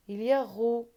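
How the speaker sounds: whisper. Shown as a demonstration. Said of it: "teacher reading syllables".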